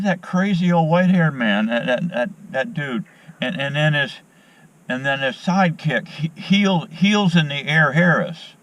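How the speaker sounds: imitating the fed-up man in the woods; mock whiny stranger.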